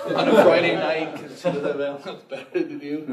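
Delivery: talking through real laughter; amused, laughing as the joke continues. Real, not acted. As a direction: let the laugh run through the words. Joking about the late roofer.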